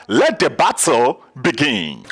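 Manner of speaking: loud, drawn-out announcer's call; big emcee cry to start the show; contest kickoff call. Real, not acted. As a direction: launch the battle with a slow, booming shout. Host launches the contest.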